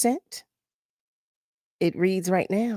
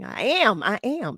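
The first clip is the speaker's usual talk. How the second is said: ordinary talk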